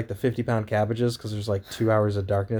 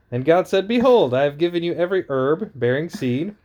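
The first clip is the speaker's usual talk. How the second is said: booming biblical narration; 2 semitones higher than usual. Acted. Reads Genesis aloud.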